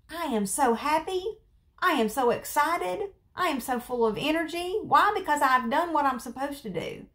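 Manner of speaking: high, bubbly excitement; excited. Retold or imitated. Showing viewers the joy of an early start, excited and high. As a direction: gush about how good it feels.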